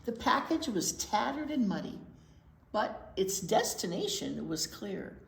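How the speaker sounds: steady storytime read-aloud voice; gentle storybook narration; picture book reading. Acted. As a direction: read it to the little ones, clearly.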